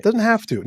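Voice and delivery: "have" pitched high and loud; stress on have. Real, not acted. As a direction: lean hard on "have". Correcting the listener's word choice.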